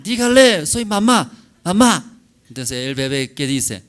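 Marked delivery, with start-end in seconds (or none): 0.0-2.2 put-on much higher, louder sing-song to a baby; coaxing mother. Mother leaning over her baby, coaxing it to speak in a high sing-song. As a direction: coax the baby to say mamá.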